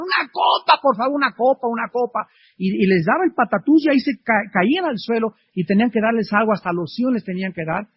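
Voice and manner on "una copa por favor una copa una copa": high-pitched imitation of a begging alcoholic, easing off; mock desperate cry. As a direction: mimic a desperate plea without full volume. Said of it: "alcohólicos a las doce de la noche gritaban".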